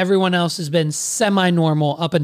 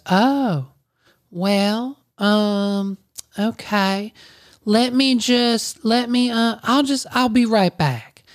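higher, hesitant stalling voice; flustered Susan; 4 semitones higher, slower than usual. Retold or imitated. Susan stalling before asking her manager, flustered. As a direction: stumble through an excuse, lightly put-on higher voice.

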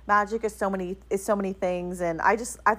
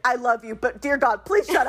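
exasperated plea. Retold or imitated. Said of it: "he's like".

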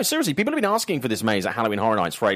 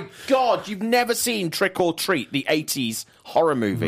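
shocked disbelief; 7 semitones higher than usual. Real, not acted. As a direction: act stunned at the news. Shocked friend never saw film.

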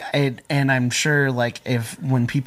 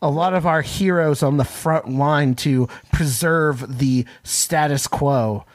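sarcastic; 2 semitones higher than usual. Acted. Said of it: "I hope you heard the sarcasm in that statement".

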